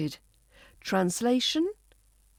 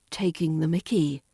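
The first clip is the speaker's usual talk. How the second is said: lower take; 5 semitones lower than usual. Shown as a demonstration. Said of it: "Number six".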